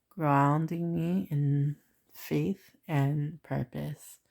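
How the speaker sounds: slow, measured read-aloud; affirmation reading. Acted. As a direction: read it out deliberately, drawing out the words.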